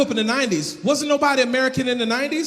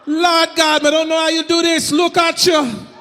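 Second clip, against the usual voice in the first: mock outrage; 6 semitones higher, 4 dB louder than usual.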